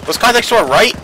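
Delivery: high, loud alarmed question; urgent shout. Real, not acted. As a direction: yell it in alarm.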